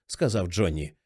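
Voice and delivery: ordinary delivery, nothing marked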